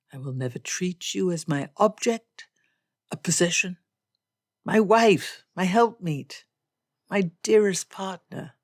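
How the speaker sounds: lightly voiced solemn, ardent gentleman; Darcy vowing. Darcy swears an oath to Elizabeth, mildly ardent. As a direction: swear it to her with emphatic sincerity.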